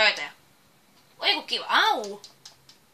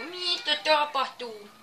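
slow, louder, higher drawn-out what's happening; baffled; 5 semitones higher, 8 dB louder, slower than usual. Real, not acted. Gamer staring at the screen, baffled and slow. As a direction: stretch the question out in disbelief.

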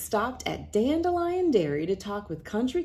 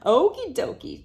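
louder, higher cheerful okie dokie; 7 semitones higher, 7 dB louder than usual. Acted. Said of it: "cheered Railroad Hank".

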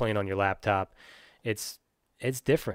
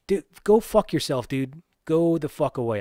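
angry dismissal; 4 semitones higher than usual. Real, not acted.

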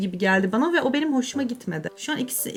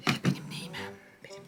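whisper; 12 dB quieter than usual. Real, not acted. Muttering to herself over makeup.

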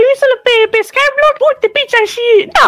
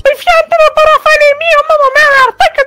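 loud yelling. Real, not acted. Explaining the island to another player, yelling. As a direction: keep yelling your explanation over the other player. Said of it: "omule, nu mai țipa așa".

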